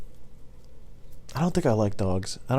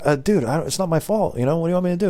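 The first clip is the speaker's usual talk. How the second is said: higher-pitched retold excuse; defensive protest; 7 semitones higher, faster than usual. Driver defending himself to angry customer, higher-pitched protest. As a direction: plead innocence in a raised voice.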